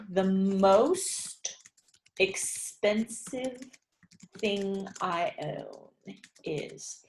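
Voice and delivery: very slow, stretching "expensive" out for writing; slow dictation. Shown as a demonstration. Teacher dictating the next sentence to the class, slowly. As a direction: dictate it word by word. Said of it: "the next one that we're gonna do is".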